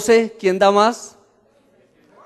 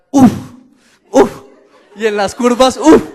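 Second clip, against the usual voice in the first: breathless gasps; 5 semitones higher, 7 dB louder than usual. Retold or imitated. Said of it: "lo único que yo hacía era".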